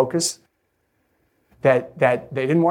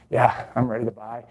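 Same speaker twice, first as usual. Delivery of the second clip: reluctant yes; 4 semitones lower, 4 dB quieter than usual. Shown as a demonstration. Customer reluctantly agreeing to buy, grudging and low. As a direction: lower and softer grudging yes. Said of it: "That whole accent".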